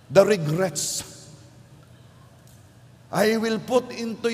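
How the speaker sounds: a taunting voice of feelings, rising high and slow; tempting emotions. Pretend. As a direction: tease the listener toward despair.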